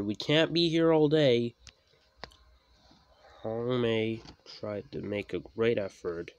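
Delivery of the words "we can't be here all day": loud, high complaint; forceful, raised, impatient voice; impatient shout. A narrator's reading. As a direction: yell to hurry the engine up. Driver urges stuck engine.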